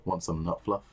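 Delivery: a hint of a creepy offer; mock-creepy, leaning in; lightly voiced creep. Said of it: "All creepy like".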